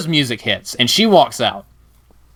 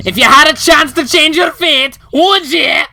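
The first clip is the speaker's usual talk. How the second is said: put-on much higher, louder Scottish accent; 9 semitones higher, 4 dB louder than usual. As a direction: burst into a hammed-up Scottish accent. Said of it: "not even gonna try to do a Scottish accent".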